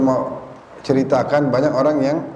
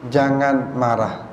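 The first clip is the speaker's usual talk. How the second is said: gentle advice; 3 semitones lower, slower than usual. Retold or imitated. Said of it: "Kata Nabi".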